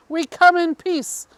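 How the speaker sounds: a lightly hammed-up alien greeting; mock grand announcement. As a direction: announce it like a ceremonial first contact. Alien arrival announcement quoted.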